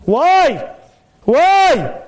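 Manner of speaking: a rhetorical why that climbs; rising why. Acted. Rhetorical question building.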